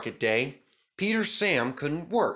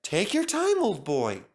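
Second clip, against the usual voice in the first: soothing; 6 semitones higher than usual. Acted. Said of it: "soothed his driver".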